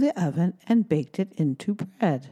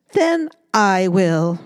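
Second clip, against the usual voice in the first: slow, louder firm hen; determined hen; 6 dB louder, slower than usual. Acted. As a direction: say it firmly, on her own. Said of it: "said the little red hen".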